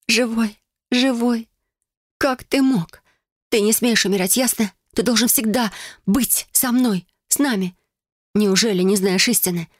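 high, excited tearful scolding; half laughing, half scolding him; joyful scolding. Acted. Heroine scolds revived lover joyfully.

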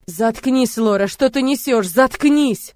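loud furious roar; yelling. A narrator's reading. Murat losing control, roaring at Lora. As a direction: bellow at her to shut up. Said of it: "Срывается и орёт".

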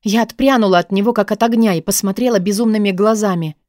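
ordinary delivery, nothing marked

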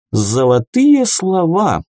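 high, drawn-out praise; touched admiration. A narrator's reading. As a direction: gush slowly in approval. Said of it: "умилился Амадзе".

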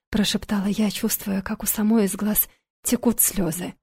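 plain reading voice

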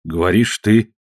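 dead, indifferent voice; flat, lifeless. Acted. Walt giving in to Ned, flat and lifeless. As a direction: say it as if nothing matters. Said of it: "Голос его был плоским, мертвенным".

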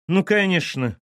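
high, loud dismissive retort; snorting scorn. A narrator's reading. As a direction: scoff it like a mother-in-law. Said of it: "фыркнула тёща". (презрительно фыркнув)

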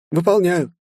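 very high, bright assistant voice reporting; an eager suit AI arriving; robot helper. Acted. Carol reports arrival to her master, very high and eager.

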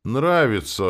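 loud, high-pitched hasty acceptance; eager exclamation. A narrator's reading. Coachman grabs the offer from passenger, eager. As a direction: exclaim it, anxious to keep the deal. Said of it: "воскликнул он".

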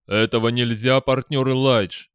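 loud, firm and slow; firm refusal. A narrator's reading. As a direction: refuse flatly, no room to argue. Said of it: "твёрдо сказал Дэниел". (твёрдый отказ)

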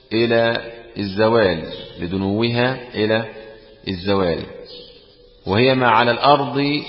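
usual speaking voice

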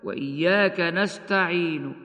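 نستعين ending with a faint trace of the damma, slow; rawm. Shown as a demonstration. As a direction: recite وإياك نستعين with a barely heard u on the final ن of نستعين. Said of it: "والروم هكذا".

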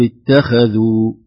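اتخذوا said with a weakened خ; wrong pronunciation. Shown as a demonstration. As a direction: demonstrate the faulty اتخذوا. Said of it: "ولا نقول".

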